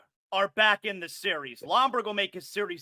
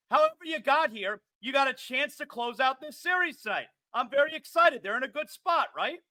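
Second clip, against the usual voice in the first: higher-pitched nervous excitement; excited, nervous; 5 semitones higher than usual. Real, not acted. Host tells George he's nervous about tonight, excited and nervous. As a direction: talk yourself up before the big game, keyed up. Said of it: "You sound excited. You sound nervous".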